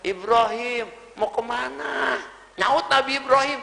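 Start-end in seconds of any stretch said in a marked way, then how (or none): 0.1-2.2 seruan memanggil, suku akhir dipanjangkan; mildly acted call after someone walking away; teriakan retoris. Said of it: "Siti Hajar teriakan tiga kali teriak". (panggilan ditarik panjang, tanpa teriak keras)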